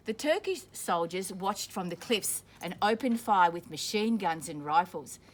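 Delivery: clear, steady storybook reading; reading to children. A narrator's reading. Teacher reading a war story to children, steady storybook voice. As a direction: read it out for the class. Reading picture book aloud to class.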